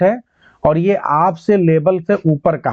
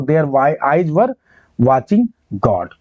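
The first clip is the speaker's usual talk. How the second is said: slow repeated title; 2 semitones lower, much slower than usual. Shown as a demonstration. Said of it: "बहुत ही बेहतरीन title".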